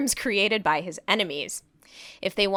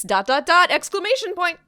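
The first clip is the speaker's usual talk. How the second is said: mock dramatic; 7 semitones higher, 6 dB louder than usual. Reading punctuation dramatically.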